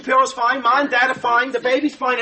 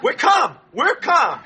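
panicked yelp, pitch jumping up; panicky; 5 semitones higher, slower than usual. Acted. Husband hearing of contractions, panicky. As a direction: insist on calm in a high, nervous voice. Frantic husband insisting he is calm.

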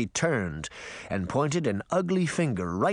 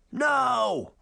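crowd shout; 11 semitones higher than usual. Acted. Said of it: "A few even shouted".

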